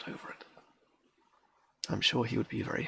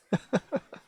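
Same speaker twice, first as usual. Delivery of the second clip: short high laugh; a brief burst of laughter; 13 semitones higher, 9 dB louder than usual. Real, not acted. Laughs to themself after aside.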